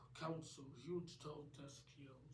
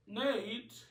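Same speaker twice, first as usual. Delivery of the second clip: calling out; 7 semitones higher, 13 dB louder than usual. Acted. Ollie calls out to friend.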